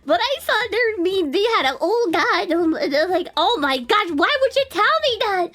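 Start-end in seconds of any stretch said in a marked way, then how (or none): 3.4-5.5 climbing into high, mock-horrified pleading; scandalized protest. Streamer replaying her reaction to an overshare, mock-horrified. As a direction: protest higher and higher, half laughing.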